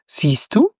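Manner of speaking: breathy whisper, no voice at all. Acted. The little creature whispers to the narrator, hushed. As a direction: let it out on a whisper, knowingly.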